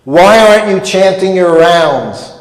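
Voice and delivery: hammed-up scolding question; retold scream. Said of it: "he's already screaming at me".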